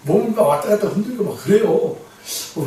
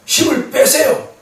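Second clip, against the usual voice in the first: 힘을 빼세요 said higher, louder and slowly; a raised, drawn-out plea to let go; urgent plea; 7 semitones higher, 5 dB louder, slower than usual. Retold or imitated. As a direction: lean into 힘을 빼세요, pleading. Urging him to relax.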